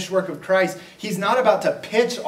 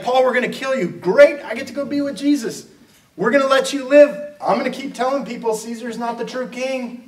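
high, loud, delighted replies; preacher voicing Paul, overjoyed and much higher; gleeful Paul; 8 semitones higher, 5 dB louder than usual. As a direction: cheer at every threat. Paul delighted at death threats.

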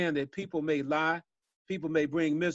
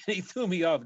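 laughing through the words; chuckling while telling it; amused laugh breaking in; 4 semitones higher than usual. Real, not acted. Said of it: "I'm laughing now".

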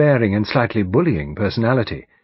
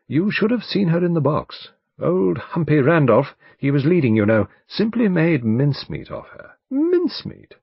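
higher-pitched, emphatic barrister voice; barrister, relishing the memory; 8 semitones higher, 4 dB louder than usual. Acted. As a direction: recount the courtroom rout with emphasis. Voices the barrister recalling trial.

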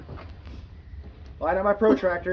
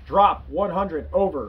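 calm radio call for fire; slower than usual. Shown as a demonstration.

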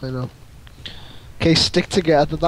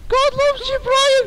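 high shouted catchphrase; slower than usual. Acted. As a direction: proclaim it like a street preacher. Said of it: "do it again".

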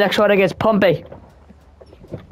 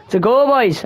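excited; 5 semitones higher, slower than usual. Real, not acted. Celebrating goal.

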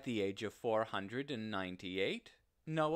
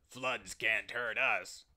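slow, scornful giant's sneer; mock him with slow contempt; 3 dB louder than usual. A narrator's reading. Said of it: "sneered the giants".

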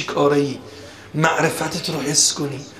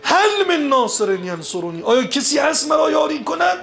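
pleading call climbing high at the end; retold loud call; 9 semitones higher than usual. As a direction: call out for a helper, as a preacher retelling. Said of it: "فنادا به اعلی صوته".

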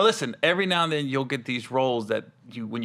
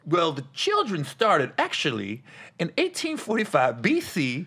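slow, lightly raised bad Kat impression; 4 semitones higher than usual. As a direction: drag it out like a hammy Kat. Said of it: "That's your Kat voice?".

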